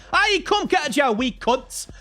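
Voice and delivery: high, drawn-out Scottish battle cry; badly faked Scottish accent, yelled as if charging into a fight; shouted Scottish accent. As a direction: holler it in a rough attempt at Scots. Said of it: "just shouting at them in, in Scots".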